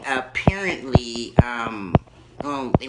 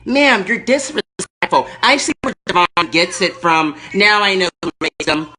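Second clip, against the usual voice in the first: much higher, loud shrill-free lady rant; Erkenbacher; 8 semitones higher, 5 dB louder than usual. Acted. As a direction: scold them as the offended lady caller. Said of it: "Erkenbacher calling back".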